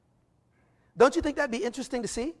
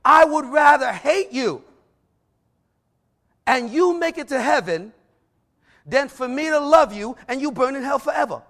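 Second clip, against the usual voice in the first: firm retort; 4 semitones higher, 5 dB louder than usual. Retold or imitated. This is what I told him.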